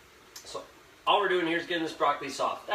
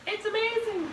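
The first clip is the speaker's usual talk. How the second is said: much higher, squealed with put-on glee; mock delight. Home cook tasting the finished soup, hammed-up gushing. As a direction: gush like the soup blew your mind. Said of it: "and then you're like".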